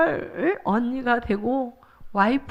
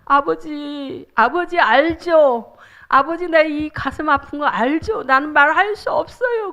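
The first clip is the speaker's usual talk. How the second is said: tearful prayer; 2 semitones higher than usual. Shown as a demonstration. Pastor's wife modelling a tearful plea to God. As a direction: beg the Father through tears. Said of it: "울면서 기도해야 돼".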